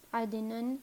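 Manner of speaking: عدنن said adnan; "an" ending. Shown as a demonstration. Teacher listing three forms, عدنن ending in "an". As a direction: end عدنن in "nan". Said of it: "تینوں طرح سے فلی flexible".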